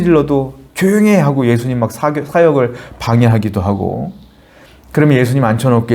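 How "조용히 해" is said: sharp hush. Retold or imitated. Peter silences the blind men shouting for Jesus, high sharp command. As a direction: shut them up from the crowd.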